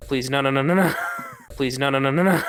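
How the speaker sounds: loud hammed-up begging; mock pleading shout. Real, not acted. Pleading not to end like that.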